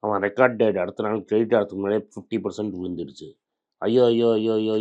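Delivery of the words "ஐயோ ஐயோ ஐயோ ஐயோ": hammed-up panicky wail, a bit louder; mock wailing. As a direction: mimic a panicking investor's loud lament. Mocking panicked investors.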